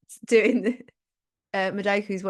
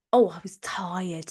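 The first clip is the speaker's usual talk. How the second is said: tired whisper; 2 semitones lower, slower than usual. Retold or imitated. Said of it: "weary tired remembrance".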